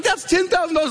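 very high imitation of amazed disbelief; acted-out astonishment; stunned wife. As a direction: voice a wife's shock, pitch way up. Voicing stunned wife seeing check.

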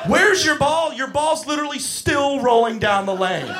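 high, loud mocking outburst; exasperated rant. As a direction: throw the question back, loudly incredulous. Exasperated counsellor rant at kid.

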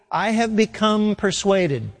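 "become" emphasized within a slow, deliberate line; stress on become. Shown as a demonstration. Preacher quoting Paul to the congregation, stress on "become". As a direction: lean on "become", taking the phrase slowly. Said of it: "Emphasis on become".

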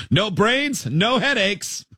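mom's mock sing-song saying. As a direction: drag it out like a nagging mom.

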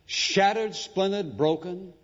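shattered pitched high and ringing; rising emphatic words. Acted. Preacher building to his climax, high emphatic words.

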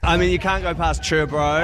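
fast, casual Kiwi slang; broad Kiwi accent. Retold or imitated. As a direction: rattle off chur bro, Kiwi style. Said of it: "the most white boy thing".

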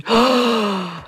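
sharp high gasp, caught off guard; a sudden intake of breath, shaken; shocked gasp. Retold or imitated. Retelling the harsh scene, a shocked gasp.

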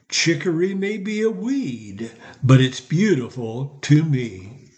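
sing-song rhyming verse recital; silly poem reading. Acted. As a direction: read it like a proud homemade poem. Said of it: "I wrote a silly poem".

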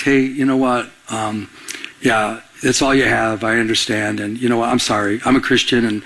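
a hint of a contrite customer; humble apology. Apologizing to the clerk.

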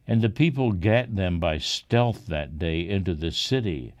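ordinary delivery, nothing marked

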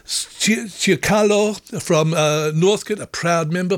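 breathless from a long list; out of breath. Real, not acted. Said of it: "I'm running out of breath here".

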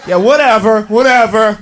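low, scornful brush-off; dismissive whatever. Acted. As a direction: wave her off with contempt. Bossy friend dismissive, far.

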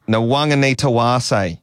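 slow, deliberate Nwang'anitawase. Shown as a demonstration. Presenter repeats the hard name for the coaching co-host, slowly. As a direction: take the name syllable by syllable, stretched out.

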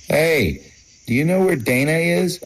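high, fast call across the yard. Retold or imitated. Calling to a stranger.

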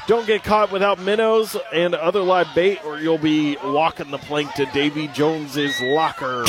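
pirate voice. Acted. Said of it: "In my best pirate voice".

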